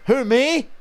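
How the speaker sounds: high, loud fake-innocent squeak; mock innocent "who me". Streamer imitating a troll, high fake innocence. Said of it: "troll repeats".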